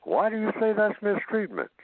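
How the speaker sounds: high, rising disbelief at the complaint; incredulous. Retold or imitated. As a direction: table of people reacting in disbelief. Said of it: "everybody around the table might say".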